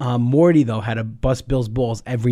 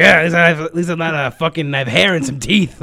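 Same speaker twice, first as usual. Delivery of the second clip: gravelly mock yell; 5 dB louder than usual. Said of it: "gravelly voices yelling at each other".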